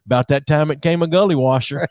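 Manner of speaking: put-on a touch of the aunt's Southern accent. Repeating wife's aunt's storm post, light Southern accent. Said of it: "posts their things on, like, Facebook the way they talk".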